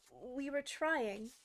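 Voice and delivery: slow, humble plea. Acted. Gardener pleading with the queen, slow humble plea. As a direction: plead it, slowly. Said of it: "in a very humble tone".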